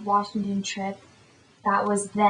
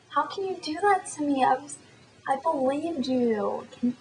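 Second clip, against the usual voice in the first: higher, acting out a betrayed friend; mock indignation; 5 semitones higher than usual. Friend who believed the prank, higher mock-indignant voice. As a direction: reproach her in a pitched-up imitation. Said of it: "She got so mad at me".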